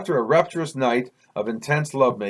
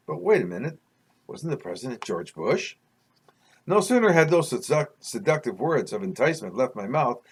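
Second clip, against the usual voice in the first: measured, deliberate read-aloud storytelling; story narration. A narrator's reading. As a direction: read it like a memoir chapter. Reads own story aloud.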